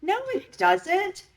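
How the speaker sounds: high, slow, pointed no; high drawn-out dismissal; emphatic high retort. Real, not acted. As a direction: shoot it down with a high firm no.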